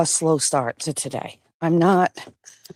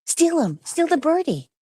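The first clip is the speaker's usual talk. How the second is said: high-pitched dog-play cheer; playful egging on; 10 semitones higher than usual. Real, not acted.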